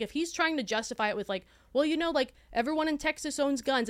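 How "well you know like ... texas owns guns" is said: mocking gun guy voice.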